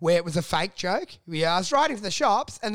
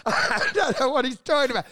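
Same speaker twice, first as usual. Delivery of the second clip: laughing; 3 semitones higher than usual. Real, not acted. Comic laughing at his own story, real laughter. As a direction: repeat it while cracking up.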